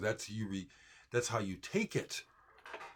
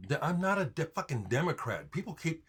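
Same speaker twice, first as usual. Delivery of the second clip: getting mad; 3 semitones higher than usual. Real, not acted. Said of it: "See, I get mad".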